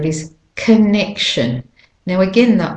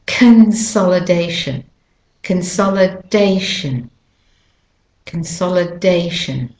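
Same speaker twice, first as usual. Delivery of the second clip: consolidation with the main stress on DAY. Shown as a demonstration. Teacher drilling consolidation for learners, stress on DAY. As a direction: repeat consolidation carefully, leaning on DAY. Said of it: "the day is the main stressed syllable".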